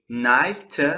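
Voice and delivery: "to" shrunk to a short "tə"; reduced "to". Shown as a demonstration. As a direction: say "to" as a weak "tə" after "Nice".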